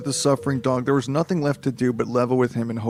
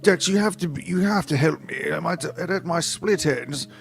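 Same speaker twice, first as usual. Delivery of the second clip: put-on higher, urgent British-accented plea; a hammed-up British voice calling after Dex; lightly put-on British accent; 4 semitones higher than usual. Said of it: "they implied he was British".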